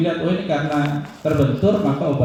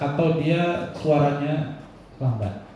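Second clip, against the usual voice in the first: slow, softer, drained of energy; slow tired voice; 3 dB quieter, slower than usual. Shown as a demonstration. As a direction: drag it out like someone out of energy. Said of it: "Lambat itu kayak orang yang sudah energinya habis". (suara lambat seperti kehabisan tenaga)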